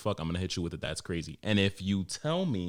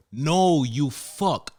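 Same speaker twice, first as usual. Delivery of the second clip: loud, higher snap of "no"; angry retort; 5 semitones higher, 6 dB louder, much slower than usual. Acted. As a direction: tell him off with exasperation. Ranting at annoying customers.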